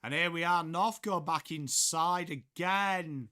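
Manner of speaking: loud, stretched footy call; live play-by-play. Real, not acted. Commentator calls North going back inside, loud play-by-play. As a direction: project it like a match commentator.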